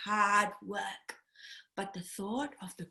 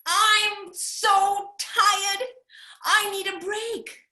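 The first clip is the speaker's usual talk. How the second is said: worn-out digger; 9 semitones higher, 5 dB louder, slower than usual. Acted. Tree kangaroo exhausted.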